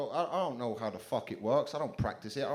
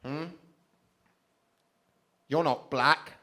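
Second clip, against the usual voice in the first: slow, louder sneering challenge; a hater on Twitter demanding answers, sneering slowly; mock online troll; 5 semitones higher, 8 dB louder, slower than usual. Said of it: "someone will send me something going like".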